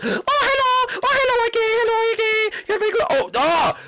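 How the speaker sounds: a cheerful monster finding its prey; creepy animatronic greeting. Acted. Animatronic finding Y K, high singsong.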